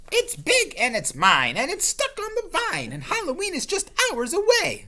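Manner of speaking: high, loud possessive witch. Acted. Witch warning off the ghost, possessive. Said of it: "said the witch".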